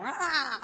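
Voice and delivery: high drawn-out "ah"; imitated wail of messing up; mock frustrated cry. Actress retelling botched lines on set, mock wail.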